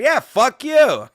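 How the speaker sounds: loud, high, drawn-out retort; angry comeback. Retold or imitated. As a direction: re-enact yelling it back, slowly. Own comeback to the foreigner.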